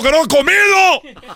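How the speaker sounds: high, slow, laughing question; high laughing disbelief. Acted. Son asking father's ghost, high and laughing. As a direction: ask in amazement with a laugh.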